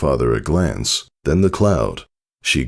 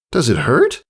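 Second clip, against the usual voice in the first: higher, small worried voice; worried filly; 10 semitones higher than usual. Acted. Filly asking father, small worried voice. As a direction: ask it timidly.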